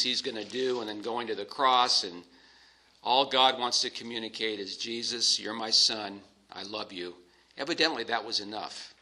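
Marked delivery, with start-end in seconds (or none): 4.8-7.2 tender fatherly voice. Acted. Preacher voicing God's tender words to his Son, hushed and gentle. God speaking tenderly to Jesus.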